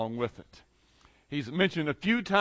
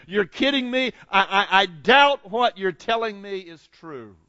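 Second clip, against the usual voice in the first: building disbelief; 2 semitones higher, 3 dB louder than usual. Acted. Thomas telling the disciples he doubts them, insistent. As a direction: reject it point by point, building to an emphatic close.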